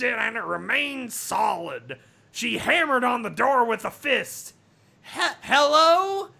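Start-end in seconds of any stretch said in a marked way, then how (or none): 5.0-6.3 higher, louder calling hello. Acted. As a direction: call out through a door. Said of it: "she called".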